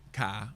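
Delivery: "ka" with the r dropped, Boston-style; mock Boston accent. Shown as a demonstration. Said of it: "Even saying that was horrible".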